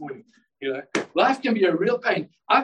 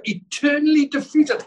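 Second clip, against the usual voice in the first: preaching shout; 8 semitones higher, 5 dB louder than usual. Acted. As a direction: belt it out high and loud. Preacher climaxes on victory.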